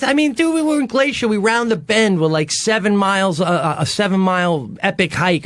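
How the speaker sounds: high, excited recounting. Real, not acted. Man tells friends about the hike, high and excited. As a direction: pitch way up with the thrill.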